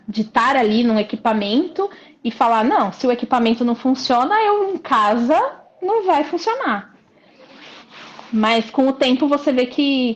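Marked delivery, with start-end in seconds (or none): 2.6-6.9 retold doubt climbing to a high finish; mock skepticism. Client recalling her doubts about training at home, mock skepticism. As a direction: lift the pitch as if it's plainly absurd.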